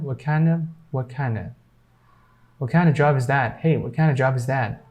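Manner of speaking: "what kind of" joined as "wha-kinda", quick in full sentences; silent T. Shown as a demonstration. Teacher repeating the example "what kind of", silent T. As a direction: swallow the T of "what" and link into "kind of". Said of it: "T will be silent".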